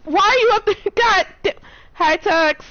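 high, loud call upward; shouting up to balcony. Real, not acted. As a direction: yell up to someone above. Teammate up on a ledge.

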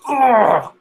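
high, loud grunt of pain. Acted. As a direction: grunt as if struck in a fall. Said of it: "And he goes".

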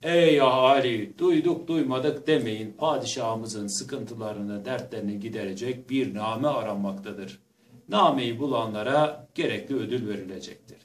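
loud proclaiming crier call; town crier. Acted. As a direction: call out to the crowd. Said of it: "Tellahlar çıkmış".

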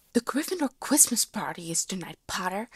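loud, sharp snap; loud irritated snap; snapped. A narrator's reading. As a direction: bite the words off at him. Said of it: "Lily snapped".

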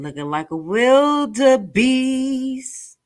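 slow, put-on mocking voice; mocking drawl. Real, not acted. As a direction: draw it out in scorn. Mocking the woman in clip.

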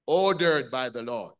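loud preached answer; preaching emphasis. Real, not acted. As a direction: hit the answer hard for the congregation. Preacher completes call-and-response.

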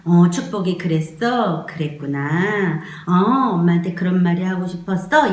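tender, unhurried demonstration of comforting; slow soothing. Shown as a demonstration. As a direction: take your time acknowledging the baby's feelings. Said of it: "이 손의 놀림이 이렇게 같이 느려져요".

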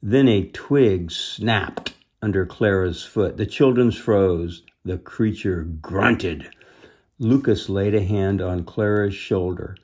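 measured storybook reading; deliberate, expressive storytelling; story narration. A narrator's reading. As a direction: read a children's adventure aloud. Reads storybook aloud.

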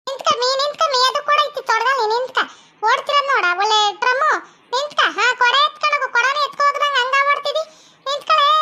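mother hollering after her daughter; calling after someone. Acted. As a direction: order a runaway to halt. Mother calls after fleeing daughter.

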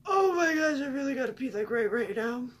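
high, loud burst of alarm; panicked urgency. Retold or imitated. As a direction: act out a sudden, desperate emergency. Acting out sudden urge to pee.

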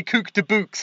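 "Cook de books" with a Scouse accent, "de" for "the"; Liverpool accent. Shown as a demonstration. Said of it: "You gotta say".

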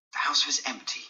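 breathy whispered thought; hushed inner thought. Acted. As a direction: whisper it to yourself, secretive. Dorian thinking to himself.

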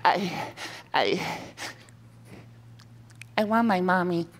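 high whimpering plea; whiny. Acted. Trapped lion whimpers for mommy, high and whiny. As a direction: whine like a scared little kid. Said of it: "the great big lion said".

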